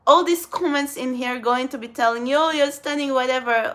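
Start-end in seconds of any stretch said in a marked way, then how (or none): 2.4-3.1 mildly gushing, mocking fake praise; mock fake praise for a commenter; fake compliment. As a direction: toss off the compliment with a hint of mockery. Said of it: "Oh, that's fucking fake".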